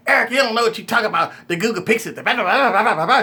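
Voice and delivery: mock critics. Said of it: "they be yelling at me".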